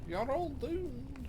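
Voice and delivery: very high, slow mock doom cry; doom-laden villain voice. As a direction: stretch it out like a cackling villain. Ominous doom pronouncement.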